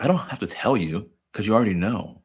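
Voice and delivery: a hint of a brushing-off father; lightly voiced offhand father; dismissive dad. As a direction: shrug it off, no need to say it. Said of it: "it's almost like".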